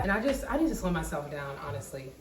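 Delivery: breathless from talking fast; running out of air mid-sentence; out of breath. Real, not acted. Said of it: "I'm running out of breath".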